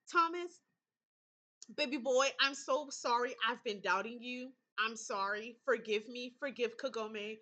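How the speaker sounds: begging forgiveness; pleading apology. Real, not acted. Player apologizes to Thomas for doubting him, pleading.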